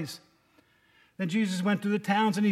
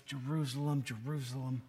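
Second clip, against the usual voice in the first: tender double name; 6 semitones lower, 8 dB quieter than usual. Shown as a demonstration. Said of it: "He says the name twice".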